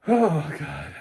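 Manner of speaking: loud laughing exclamation; real laughing sigh. Real, not acted. Recovering from laughter.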